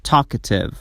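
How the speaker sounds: talkative with a light schwa after the k, tal-kə-tive. Shown as a demonstration. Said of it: "بعد از K یک شوا ساوند وجود داره".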